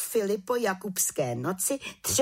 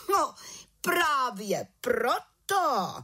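pomalu a káravě, výš; hubování; 6 semitones higher, slower than usual. A narrator's reading. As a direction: lehce hubující stará čarodějnice. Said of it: "hubovala vrchní čarodějnice". (vrchní čarodějnice hubuje malou čarodějnici)

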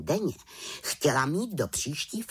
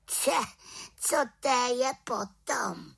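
high, slow puzzled question; little witch; 13 semitones higher, slower than usual. Acted. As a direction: ask a bit defiantly. Witch asks sulkily. (malá čarodějnice se vzdorně ptá)

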